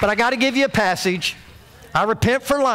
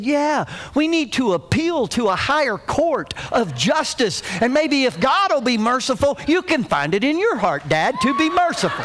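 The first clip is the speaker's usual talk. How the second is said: higher-pitched imitation of a pleading child; appealing; 4 semitones higher than usual. Little boy appeals to Dad for mercy, mock-earnest pleading. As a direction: plead your case like a tiny lawyer. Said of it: "he started appealing".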